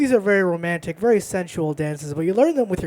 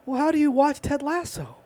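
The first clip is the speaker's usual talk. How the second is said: much higher, incredulous imitation of himself; mock grave concern; 10 semitones higher than usual. Friend asks how anyone watches Ted Lasso, mock-aghast. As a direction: act aghast, pitched well up. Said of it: "as if he was asking how I feed my children".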